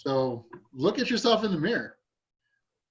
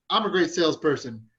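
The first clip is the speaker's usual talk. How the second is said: upbeat affirmation. Shown as a demonstration. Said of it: "doing your affirmations".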